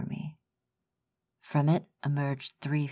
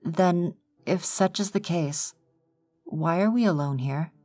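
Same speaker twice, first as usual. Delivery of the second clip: higher, louder, pressing challenge; demanding; 6 semitones higher, 5 dB louder than usual. A narrator's reading. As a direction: confront God, rising indignation. Narrator confronts God, demanding.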